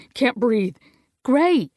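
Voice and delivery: calling out. Acted. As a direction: call after him as he runs. Ivy calling after fleeing Gray.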